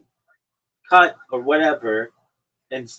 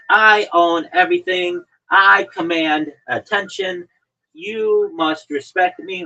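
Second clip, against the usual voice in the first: mock arrogant; 4 semitones higher, 4 dB louder, slower than usual. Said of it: "you're like".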